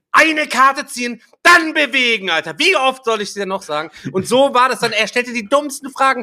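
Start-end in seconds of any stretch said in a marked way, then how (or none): 0.1-3.9 raised, louder voice with stretched-out commands; re-enacted fed-up outburst, high and emphatic; exasperated scolding. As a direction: spell out the rules at the top of your patience. Reenacts exasperated scolding over game rules.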